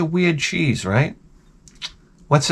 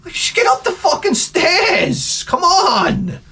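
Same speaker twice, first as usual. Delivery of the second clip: high, laughing, pleading; exasperated; slower than usual. Retold or imitated. Owner urging the dog up the stairs, high laughing plea.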